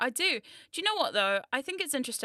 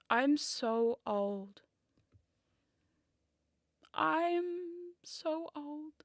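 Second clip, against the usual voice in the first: hag voice; 3 semitones higher, 5 dB quieter, much slower than usual. Pretend. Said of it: "my version of the Puss in Boots face".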